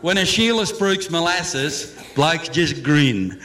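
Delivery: rhythmic comic verse in broad Australian; bush ballad recital. Acted. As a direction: spin a rollicking Aussie yarn in rhyme. Bush ballad continues, with acted dialogue.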